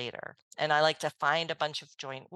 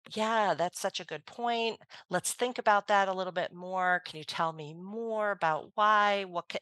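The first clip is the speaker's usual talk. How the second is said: smooth soft no; 3 semitones higher than usual. Acted. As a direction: ease gently toward a no, agreeable and unhurried. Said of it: "I just kind of smoothly say no".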